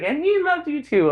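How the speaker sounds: very high imitated lovey voice; devout sweet woman. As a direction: imitate her high, loving assurance. Imitates the loving religious woman.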